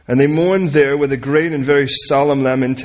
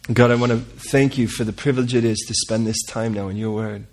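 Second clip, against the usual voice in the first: prayer. Real, not acted. Leads prayer.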